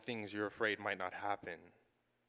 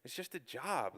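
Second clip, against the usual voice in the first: brushing off "it's just a job" with a light shrug; flippant; 7 dB quieter than usual. Retold or imitated. Son brushing off his mom's excitement, flippant. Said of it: "all flippantly".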